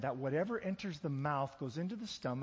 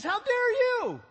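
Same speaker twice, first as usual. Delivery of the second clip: much higher, louder furious retort; Jesus rebuking; 13 dB louder, slower than usual. Retold or imitated. Jesus turning the Pharisees' outrage back, furious shout. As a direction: throw it back at them, hard. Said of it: "And Jesus says".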